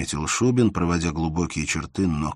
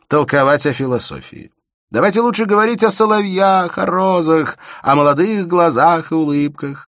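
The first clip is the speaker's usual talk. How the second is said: high, loud light-hearted coaxing; Shubin's playful voice; 9 semitones higher, 8 dB louder than usual. A narrator's reading. Shubin playfully coaxing Elena toward nightingales and roses. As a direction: coax her off philosophy onto nightingales and roses.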